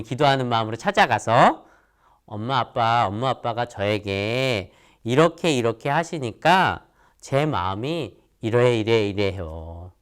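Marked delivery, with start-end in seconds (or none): 2.3-9.9 politely. Shown as a demonstration. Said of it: "라고 정중하게".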